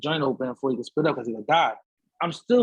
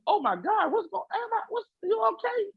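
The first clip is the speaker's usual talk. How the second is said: mock shock. Judge shocked by his face.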